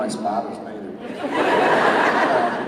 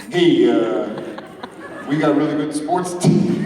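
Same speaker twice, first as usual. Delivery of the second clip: put-on Boston accent. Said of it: "I can do a Boston accent".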